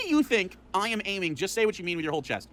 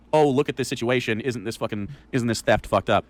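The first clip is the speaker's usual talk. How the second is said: mock outraged; 10 semitones lower, 3 dB louder than usual. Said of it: "clearly the implication is not".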